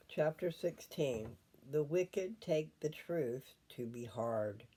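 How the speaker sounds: slow, careful reading of the chapter summary; scripture reading. Real, not acted. Grandmother reading scripture headings aloud, slow and deliberate. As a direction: read each heading line slowly.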